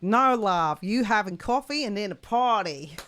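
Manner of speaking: badly put-on accent, playfully exaggerated; Lulu's accent. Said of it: "Sorry for your bad accent".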